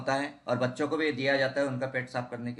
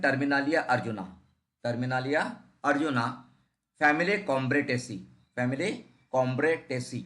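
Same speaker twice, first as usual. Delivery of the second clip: slow dictation; much slower than usual. Shown as a demonstration. Teacher dictating names to students.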